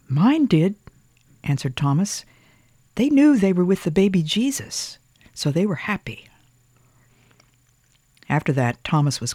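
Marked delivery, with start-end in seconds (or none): 0.1-6.3 put-on child voice. A narrator's reading. Boy voiced in story.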